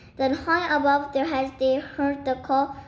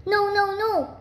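high-pitched pleading call; high storybook cry of protest; 8 semitones higher than usual. A narrator's reading. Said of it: "called out Mister and Miss Gregg".

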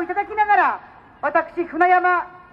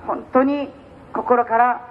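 lower, grave condolence tone; solemn; 3 semitones lower than usual. Real, not acted. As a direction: speak gravely and subdued. Turns to the shooting, condolences.

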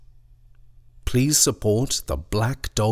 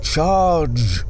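battle cry; 8 semitones higher, 6 dB louder than usual. A narrator's reading. Battle cry quoted in poem.

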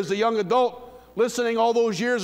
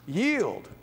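soft, lower yield; 6 semitones lower, 5 dB quieter than usual. Shown as a demonstration. Preacher quietly urging surrender, soft and low. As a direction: Yield said low and much softer. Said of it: "contrast with line 124".

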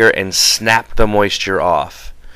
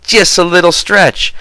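much higher sneering mimicry; mocking the driver; 9 semitones higher than usual. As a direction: mimic him with contempt. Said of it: "he says".

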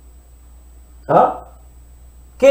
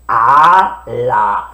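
put-on low, babyish ala; baby talk; 9 semitones lower than usual. Shown as a demonstration. Teacher mimics a baby for the children. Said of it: "No decimos como los bebés".

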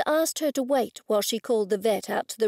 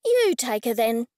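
waspish snap; 3 dB louder than usual. Acted. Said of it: "she snapped in a waspish tone".

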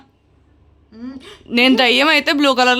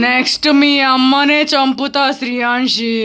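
threatening ghost. Pretend. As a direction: intone it as a menacing spirit.

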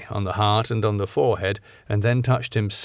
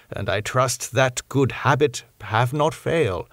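grave; 2 semitones higher than usual. Acted. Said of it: "and very gravely".

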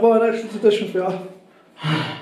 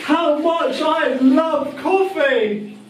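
sarcastic; 3 semitones higher, much slower than usual. Pretend. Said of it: "Don't take me for a fool, I hate coffee".

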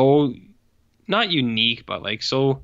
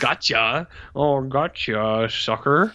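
mock villain gloat; much slower than usual. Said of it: "he would say".

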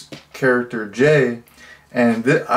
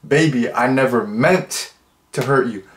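tender apology. Shown as a demonstration. Vlogger rewrites the line as a tender apology. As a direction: say it like you mean sorry.

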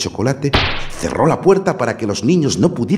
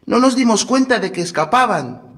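put-on high, timid boy; little boy voice; 3 dB louder than usual. A narrator's reading. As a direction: answer as a small boy. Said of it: "dijo el niño".

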